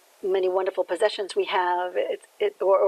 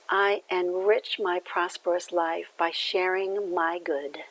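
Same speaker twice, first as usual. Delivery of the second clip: affirmation; slower than usual. Shown as a demonstration. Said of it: "the affirmation that comes along".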